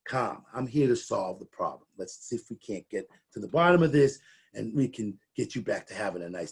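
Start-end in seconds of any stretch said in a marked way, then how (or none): 0.1-0.4 calm. Shown as a demonstration. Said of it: "You wanna bring that high energy down". 0.5-1.9 calm. Shown as a demonstration. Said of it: "bring that high energy down". 2.0-3.5 calm. Shown as a demonstration. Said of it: "You wanna bring that high energy down".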